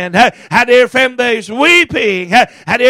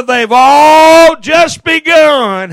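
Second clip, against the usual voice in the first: preacher's climactic shout; 3 semitones higher, 4 dB louder, much slower than usual. Real, not acted. Sermon climax on hell.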